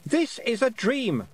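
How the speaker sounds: put-on high, loud shouted boy voice; shouting boy. A narrator's reading. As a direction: shout it while running. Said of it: "Roland shouted".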